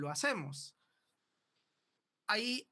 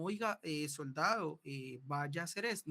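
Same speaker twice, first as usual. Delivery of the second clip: hesitant order; 2 semitones lower than usual. Shown as a demonstration. Teacher showing the wrong, hesitant way to command. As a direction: give the order unsure and wavering.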